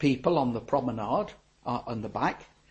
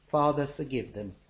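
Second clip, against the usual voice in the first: soft, low pleading prayer; quiet prayer; 3 semitones lower, 8 dB quieter than usual. Retold or imitated. Jesus praying for his enemies, quiet and tender. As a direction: pray it gently, under the breath.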